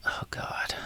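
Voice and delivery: whispered groan of exasperation; exasperated whisper. Acted. Squall groaning at Renoa, whispered. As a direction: sigh it out under your breath.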